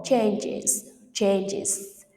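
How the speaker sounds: "changes" with ES said as IZ; IZ ending. Shown as a demonstration. Teacher gives another example, IZ ending on "changes". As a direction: say "changes" carefully in two syllables, ending IZ. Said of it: "We have pronounce is".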